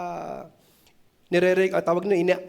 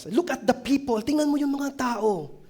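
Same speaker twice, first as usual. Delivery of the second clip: higher coaxing crowd voice; urging crowd; 7 semitones higher than usual. Retold or imitated. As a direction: point him to the cheering people. Crowd urging violinist to look. (mataas na boses ng nanghihikayat na tao)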